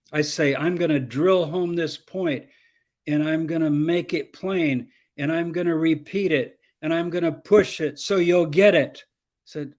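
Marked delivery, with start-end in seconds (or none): 0.6-9.0 public speaker push. Shown as a demonstration. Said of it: "as a public speaker, we naturally do this".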